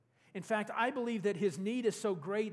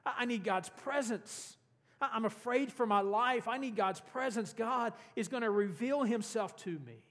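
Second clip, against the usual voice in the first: excited; 3 semitones higher than usual. Retold or imitated. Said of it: "he starts to get excited".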